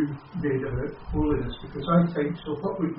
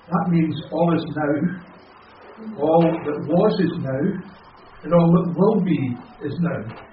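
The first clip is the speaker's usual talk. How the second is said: each phrase slow and weighty, stress on "now" at every end, a bit louder; slow emphatic now; 4 dB louder, slower than usual. Real, not acted. Newcomer to the group explains God's timeless I am, slow and emphatic. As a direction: lay down "is now" slowly, line by line, like a creed.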